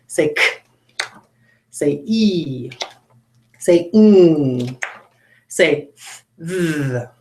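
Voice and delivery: each sound said alone with pauses; 逐个清楚地发出单音; isolated sounds. Shown as a demonstration. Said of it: "I'll say the sounds again".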